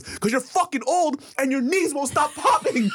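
high, drawn-out mock yell; snapping back. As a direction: retell a crew member's retort, nearly laughing. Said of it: "crew person snapped back at him".

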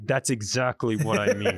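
retold pissed-off dad, tight through the teeth; contained anger squeezed through clenched teeth; through his teeth. Fed-up dad answering his goading son, talking through his teeth. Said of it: "Talking through his teeth?".

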